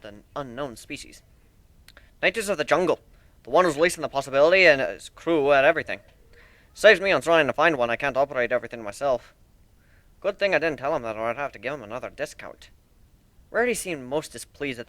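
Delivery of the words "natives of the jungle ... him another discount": lightly voiced proud shipbuilder. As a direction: show off your ship like a proud craftsman. Steelhorn explains his crew.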